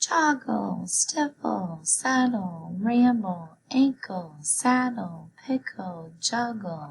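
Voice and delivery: high head voice. Reading a practice word list aloud in different voices, now in a high voice. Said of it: "And high voice".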